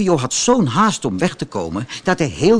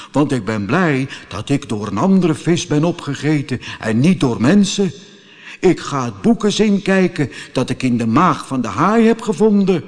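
lightly voiced calm tuna. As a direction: speak as the unbothered tuna. (licht gespeelde rustige tonijn)

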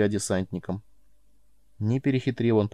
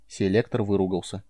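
plain reading voice

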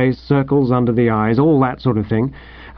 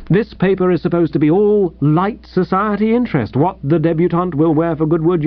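breezy editor; 3 semitones higher than usual. Acted.

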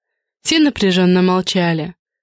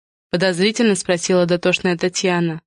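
ordinary delivery

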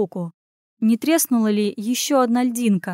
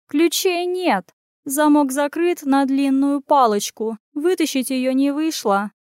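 upset cat; 5 semitones higher than usual. Acted. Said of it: "расстроилась Тесла".

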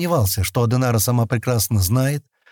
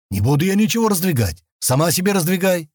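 sharp; 8 semitones higher than usual. A narrator's reading. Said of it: "резко ответил Стэн".

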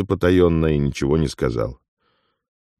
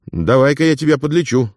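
higher, brisk and matter-of-fact; businesslike tone; 9 semitones higher than usual. Acted. Afonya offers to heal Ilya, businesslike and higher. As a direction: get down to business. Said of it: "переходя на деловой тон".

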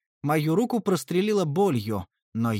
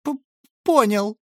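high, stammering whimper; high loud tearful whine; whiny; 7 semitones higher, 7 dB louder than usual. A narrator's reading. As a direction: whimper it out like a beaten kid. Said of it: "плаксиво ответил Гринланд".

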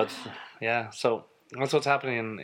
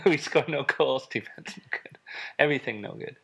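mock Italian accent; 5 semitones higher than usual. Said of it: "that exact quote underneath".

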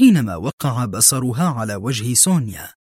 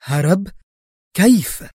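sudden sharp rise on the question; a flash of narrated anger, higher and louder; mild heated disbelief; 6 semitones higher, 3 dB louder than usual. A narrator's reading. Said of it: "وهي تغمغم محتدة".

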